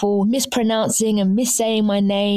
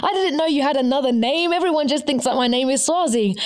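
lightly mimicked outraged listeners, pitched higher; mock-accuse in a higher voice; playful imitation of scandalised listeners; shocked listeners; 5 semitones higher than usual. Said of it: "people listening to this podcast like".

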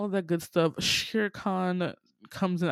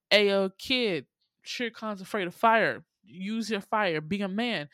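hyped vultures; 3 semitones higher, 4 dB louder than usual. Retold or imitated. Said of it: "the vultures are like".

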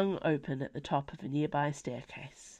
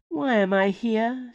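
higher, louder and slow, a captive demanding answers; nervous question; 6 semitones higher, 5 dB louder than usual. Acted. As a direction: ask it slow and pointed, pitched up. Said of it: "she asked".

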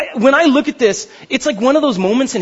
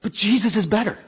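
"Jesus is better" said softer, with a gentle rise on "Jesus"; soft quiet restatement; 5 dB quieter than usual. Shown as a demonstration. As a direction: drop your voice and say "Jesus is better" softly. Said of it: "the author talking to the Jews saying".

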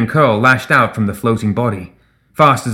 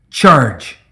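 rally the troops with one yell; shouted; 3 semitones higher, 5 dB louder than usual. A narrator's reading. Reva urging the stunned devotees forward, shouting. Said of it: "she shouted".

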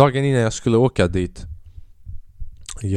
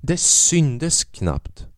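much higher, very slow mock-sweet reassurance; reassuring crew; 9 semitones higher, slower than usual. Crew reassuring the nervous guest, mock sweet high voice. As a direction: soothe him as if he were a nervous child. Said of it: "Alltså, de bara".

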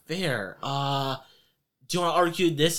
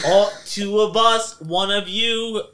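slow, louder threatening mobster; menacing mafia thug; 4 semitones higher, 5 dB louder, slower than usual. Acted. GM as mafia man sizing up the party, slow louder menace. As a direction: count them out slowly, a threat. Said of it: "They go".

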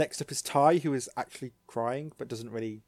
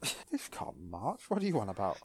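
incredulous echo; 3 dB quieter than usual. Real, not acted.

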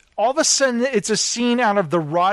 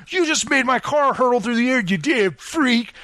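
mock outrage; 6 semitones higher than usual. Mocking cop's imagined outraged line.

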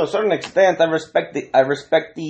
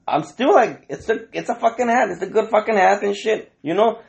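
indignant; 8 semitones higher than usual. Retold or imitated. Retold indignant rant about hat.

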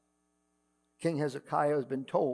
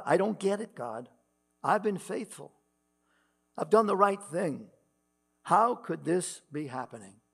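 anguished plea; 3 semitones higher, 4 dB louder than usual. Acted. Pastor voices Hezekiah crying out to God, anguished and bewildered. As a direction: cry out like a faithful man who can't understand.

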